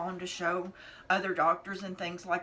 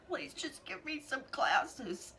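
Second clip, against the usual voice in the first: slow, high, tearful begging; crying plea; 9 semitones higher, slower than usual. Real, not acted. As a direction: plead through real tears. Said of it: "I said".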